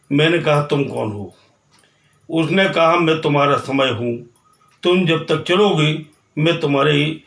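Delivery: measured verse with repeated lines, falling at the close; poem recitation. Acted. Time speaks to the walker, measured poem recitation. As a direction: recite it in rhythmic phrases, settling at the end.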